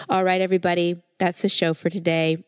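stuffy nasal voice from a cold; nasally voice. Real, not acted. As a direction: talk through a blocked nose, nasally. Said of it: "I still have my little nasally voice".

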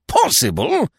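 high, loud, incredulous question; roared. A narrator's reading. Stoner scorning the commissary's caution, roaring. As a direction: throw the word back at full pitch. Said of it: "roared Stoner".

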